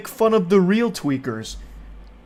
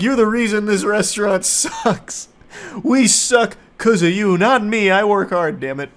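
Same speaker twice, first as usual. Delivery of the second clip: mock rant; 5 semitones higher than usual. Imagined coworker rant.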